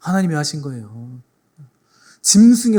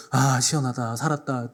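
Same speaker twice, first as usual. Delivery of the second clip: relieved sigh; 3 semitones lower, 5 dB quieter than usual. Retold or imitated. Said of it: "시원하게 해줘요".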